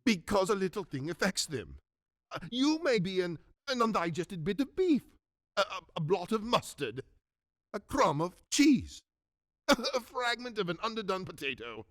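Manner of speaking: lightly voiced Scrooge, doubting and halting; sceptical Scrooge. Scrooge dismissing the ghost as bad digestion, sceptical. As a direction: talk yourself out of believing, with stammers.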